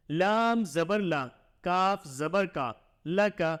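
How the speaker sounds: slow sing-song letter-by-letter reading; measured teacher's drill, syllable by syllable; Qaida spelling recitation. Shown as a demonstration. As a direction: chant each letter and vowel sign for the pupil.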